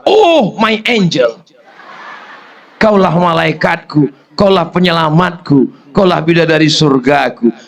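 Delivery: hammed-up loving tribute; mock romantic husband. Husband praising his wife at home, hammed-up romantic. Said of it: "Bapak katakan kepada mereka".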